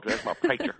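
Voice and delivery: imitated Alabama drawl, PREACHER as "praycher". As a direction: put on a real Southern Alabama drawl. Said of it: "he said it with a real Alabama drawl".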